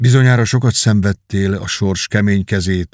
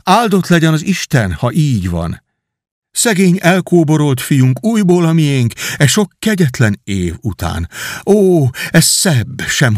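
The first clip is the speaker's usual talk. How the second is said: joyful surprise; 5 semitones higher than usual. Acted. Hugh crying out at his brother's return, mock overjoyed. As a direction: act out stunned delight at a return from the dead. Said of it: "így kiáltott fel".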